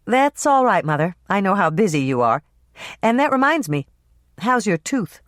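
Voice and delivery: a hint of teasing deflection; Hannah changing subject. Daughter steering mother toward her dentist, lightly voiced.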